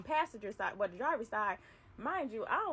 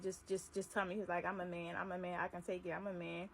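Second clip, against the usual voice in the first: boss pleading; 4 semitones lower, 5 dB quieter than usual. Retold or imitated. Boss voiced begging to be told.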